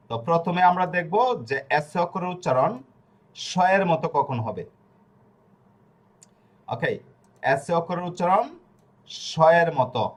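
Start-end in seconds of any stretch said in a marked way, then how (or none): 3.3-4.1 সয়ের begun with a hushing "sh"; slow down on সয়ের, said "shoyer"; sh sound. Shown as a demonstration. Teacher introducing the first rule, সয়ের with "sh". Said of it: "মানে দুন্তাস স". 9.3-10.0 সয়ের pronounced "shoyer"; sh sound. Shown as a demonstration. Teacher repeating the rule, সয়ের with clear "sh". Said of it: "মানে দুন্তাস স".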